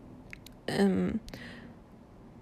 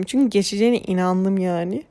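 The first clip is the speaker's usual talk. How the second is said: yawning; 3 dB louder than usual. Real, not acted. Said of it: "esniyorum şu an".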